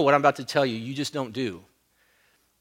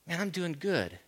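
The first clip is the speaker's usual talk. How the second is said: smug inner thought; 3 semitones higher, 7 dB quieter than usual. Retold or imitated. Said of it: "I think".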